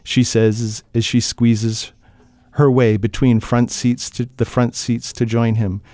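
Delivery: steady, measured reading of a tense scene; even storyteller voice over a car crash; story narration. A narrator's reading. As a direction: read it like an audiobook narrator drawing listeners in.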